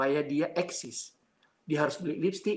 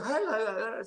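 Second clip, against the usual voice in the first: high, repeated mock yells; retold yelling; 5 semitones higher than usual. Preacher showing how the possessed girl yelled, high mock yells. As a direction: imitate crazed yelling, lightly. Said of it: "teriak-teriak seperti itu".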